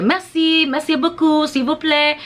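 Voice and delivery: "Merci, merci beaucoup, s'il vous plaît" high and lilting like a local; sing-songy French. Retold or imitated. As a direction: imitate a friendly Parisian's musical thanks. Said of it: "French people have this kind of sing-songy thing".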